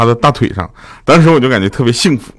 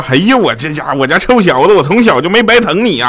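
delighted dad; 5 semitones higher than usual. Retold or imitated. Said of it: "十分的开心".

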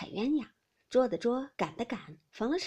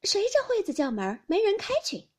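raised, louder voice, lightly amused; amused call; 10 semitones higher, 6 dB louder than usual. A narrator's reading. Xiren answers knocking at the shut gate, lightly amused. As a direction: call out high toward the gate. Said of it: "袭人笑道".

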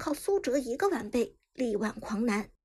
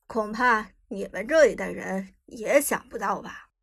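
put-on proud old man; 3 semitones lower than usual. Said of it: "骄傲地".

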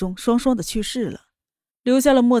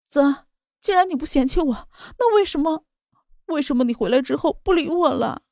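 much higher, tearful desperate plea; crying; 5 semitones higher than usual. Acted. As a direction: beg through tears. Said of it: "哭着道".

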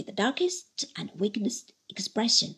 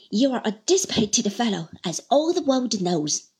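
1 forced smile; 4 dB louder than usual. Acted. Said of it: "with an effort at a smile".

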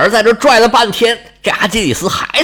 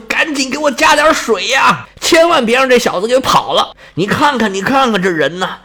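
river god calling out; 4 semitones higher than usual. Acted. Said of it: "大声呼喊说".

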